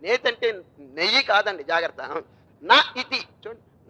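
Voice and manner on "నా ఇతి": నా ఇతి said slowly as two separate words, నా then ఇతి; splitting the word. Shown as a demonstration. Teacher explaining the Sanskrit sandhi, slow split pronunciation. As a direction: pull నా ఇతి apart slowly and higher before joining them as నేతి. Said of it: "నా plus ఇతి ... సంధి నేతి అవుతుందండి".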